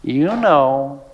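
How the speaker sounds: lightly voiced parrot, drawn out; a knowing parrot, low and slow; talking parrot. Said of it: "the parrot says".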